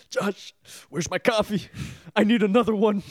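bossy star calling for coffee; demanding diva. Retold or imitated. Acting worn-out host demanding.

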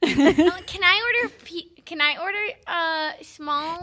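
high polite phone voice; sweet fake phone manner. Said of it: "I get so much higher".

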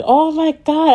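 high, shocked cry of disbelief; retold scream. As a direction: relive the moment of hearing the news, pitch jumping way up. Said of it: "I screamed".

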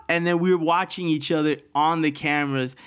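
usual speaking voice

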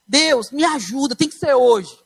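desperate prayer. Retold or imitated. Desperate prayer before baptism.

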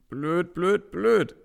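loud, high, stamping rant; angry grumble. Acted. Toni fuming as he has to go back upstairs, loud. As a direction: spit each word out in annoyance.

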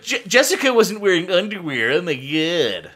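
high-pitched gossip, slowing at the end; lightly hammed-up shock, pitched high; mock scandalised gossip. Retelling cheer squad gossip about a teammate, mock scandalised.

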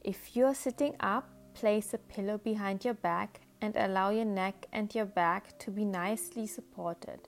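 calm, measured meditation guide with unhurried pauses; soothing guided-imagery voice, phrase by phrase. Acted. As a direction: gently lead the listener into relaxation.

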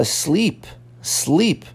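"sleep" closed on the p, no vowel after it; one-syllable sleep. Shown as a demonstration. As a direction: say "sleep" as a single stressed syllable. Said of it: "é uma coisa".

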